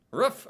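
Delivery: roof said high, with the short oo of book; high mock roof. Shown as a demonstration. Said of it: "pronounce roof like".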